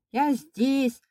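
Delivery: high, loud cry; shouting hard. A narrator's reading. Boy afraid of being left in the cupboard, high shout. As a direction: shout to stop them leaving. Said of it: "Изо всех сил крикнул".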